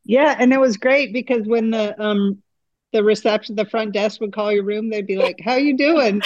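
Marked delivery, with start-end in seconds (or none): 5.4-6.2 put-on New York accent. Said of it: "the total New York accent".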